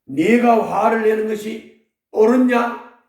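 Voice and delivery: booming rebuke from the pulpit; God's rebuke. Acted. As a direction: voice the Lord rebuking Jonah. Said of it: "주님이".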